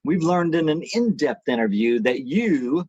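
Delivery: polished news anchor delivery. Shown as a demonstration. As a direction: read it like a TV host. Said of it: "I'm putting back on my T V anchor voice now".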